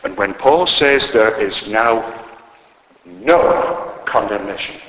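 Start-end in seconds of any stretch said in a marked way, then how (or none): 1.1-4.8 slow, weighty stress on "no"; emphatic no. Retold or imitated. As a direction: draw out "no" and set it apart before "condemnation". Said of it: "it is the strongest possible no".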